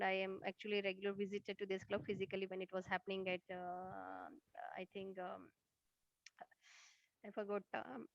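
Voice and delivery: fading away from the mic; barely audible. Real, not acted. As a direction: voice drops almost to nothing. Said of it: "We can't hear you again".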